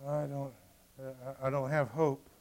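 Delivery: a king who can barely say it; broken hopeless voice. Acted. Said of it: "his voice didn't have the faith".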